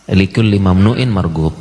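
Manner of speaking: slow emphatic repeat. Shown as a demonstration. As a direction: spell the saying out slowly for them. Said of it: "ungkapan dalam bahasa Arab".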